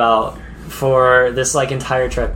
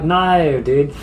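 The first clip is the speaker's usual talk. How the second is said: Aussie no. Shown as a demonstration. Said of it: "Yeah, I'm like".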